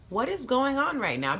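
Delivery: confused question with a laugh; laughing disbelief. Retold or imitated. Confused at getting drunk.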